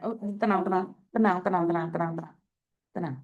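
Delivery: low, hushed reassurance; calm a distressed caller, voice dropping low; soothing. Real, not acted. Calming a crying caller.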